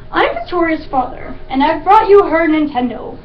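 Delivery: breezy, cheery dad introducing himself; cheerful. Acted. Father handing the game to his daughter's teacher, cheerful. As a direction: play an obliviously chipper father. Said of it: "as cheerful as if he had come to hand out candy bars".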